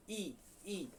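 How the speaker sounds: ई held long and soft from the palate; drawn-out vowel ई. Shown as a demonstration. Teacher showing students the palatal ई, held and soft. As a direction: stretch out ई quietly. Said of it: "एक बार बोलिए".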